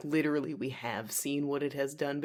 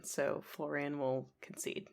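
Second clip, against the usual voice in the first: whispering; 6 dB quieter than usual. Acted. Whispered aside in scene.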